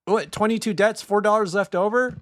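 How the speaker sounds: high, loud incredulous question; mock disbelief. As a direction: scoff at it in disbelief. Mocking disbelief.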